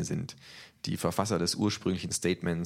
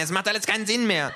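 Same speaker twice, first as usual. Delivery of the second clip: loud, high, angry thug; calling out; 5 dB louder than usual. A narrator's reading. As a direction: bark the order. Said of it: "schreit der Kleine". (laut und hoch gerufen)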